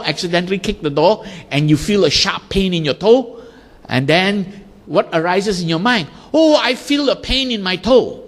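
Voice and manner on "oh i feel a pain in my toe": higher, a light pained exclamation; a hint of a stubbed-toe wince; mock pained thought. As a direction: voice the thought as a little cry. Acted inner thought of pain.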